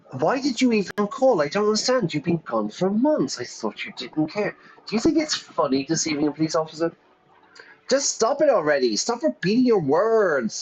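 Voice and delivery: high-pitched, put-on Valley Girl; Valley Girl accent. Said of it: "That's my best Valley Girl, uh, accent there".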